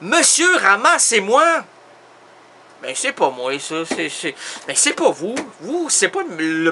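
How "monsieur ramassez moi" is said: a high, louder plea of «Monsieur»; high cry. A narrator's reading. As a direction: call out «Monsieur, ramassez-moi» like a lost little thing begging. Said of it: "il s'est mis à crier".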